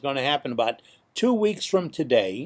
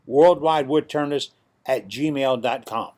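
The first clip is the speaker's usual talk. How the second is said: announcer voice. Shown as a demonstration. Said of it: "here's the announcer voice".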